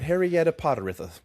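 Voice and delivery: Harrietta Potteritha with silly surplus syllables; mock-mangle the name into Harrietta Potteritha; laughing, overstuffed Harrietta Potteritha; adding syllables. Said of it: "adding syllables everywhere".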